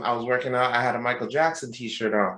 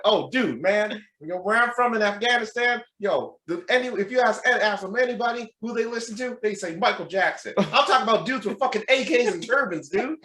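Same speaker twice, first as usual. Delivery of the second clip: high-pitched, eager Southern fan; Southern accent; 8 semitones higher than usual. Retold or imitated. Afghan gym stranger talks up his idol, Southern accent. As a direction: rave in an imitated Southern accent. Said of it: "with Southern accent".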